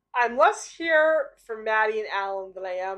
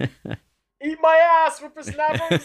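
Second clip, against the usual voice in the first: put-on slow, louder cranky old man; grumpy old codger growling; old prospector; 6 semitones higher, 4 dB louder, slower than usual.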